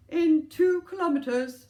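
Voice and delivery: slow, loud bossy sat nav lady; bossy lady's voice. Acted. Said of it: "in a bossy lady's voice".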